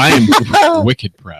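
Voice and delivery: put-on slow, drawn-out Boston accent. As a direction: stretch it out in thick Boston. Boston quip.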